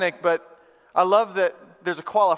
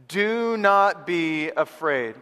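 drawn-out words for a group to repeat; measured and very slow; slow, deliberate recitation; much slower than usual. Shown as a demonstration. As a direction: lead the room, word by slow word. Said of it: "say these words with me".

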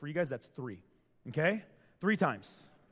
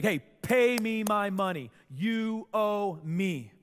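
louder, hard demand for money; 4 semitones higher, 5 dB louder, slower than usual. Acted. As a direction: lean on him for the cash.

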